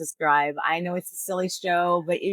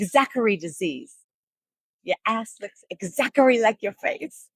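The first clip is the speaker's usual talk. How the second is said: mock Asian accent; 4 semitones higher, 3 dB louder than usual. Comedian replays his punchline for co-host, mock Asian accent. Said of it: "little Asian man, you know".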